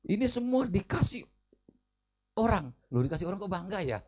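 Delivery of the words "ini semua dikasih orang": a boastful preacher quoted, pitched higher; boastful pastor. Retold or imitated. Pastor boasting to the crowd about his gifts, higher. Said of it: "dia bilang".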